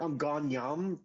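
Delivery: "I'm gone yam" in a Geordie lilt, with home said as yam. Shown as a demonstration.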